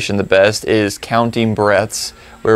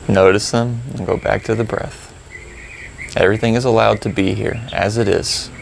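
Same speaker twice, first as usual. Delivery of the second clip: calm, unhurried reminders; gently steer them back to the breath; guided meditation; 4 dB quieter than usual. Real, not acted. Guides the silent practice.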